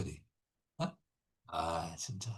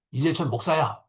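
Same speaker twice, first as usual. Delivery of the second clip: formal calling; 3 semitones higher, 5 dB louder than usual. Retold or imitated. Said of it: "예수님 이렇게 부를 때".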